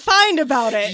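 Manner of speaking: loud, cracking up at the end; trying not to laugh. Real, not acted. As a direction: lose it on the last words. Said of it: "You did that, uh, to me on purpose".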